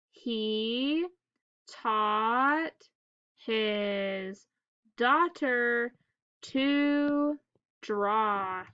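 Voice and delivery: word by word with pauses; staccato. Shown as a demonstration. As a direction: read each word on its own. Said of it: "Let's read the whole sentence together".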